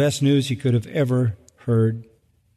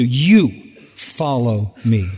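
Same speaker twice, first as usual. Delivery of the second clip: "You" hit firmly, slow and a bit louder; stress on YOU; 4 semitones lower, 3 dB louder, much slower than usual. Shown as a demonstration. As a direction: press on "You" in "You follow me". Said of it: "this is emphatic".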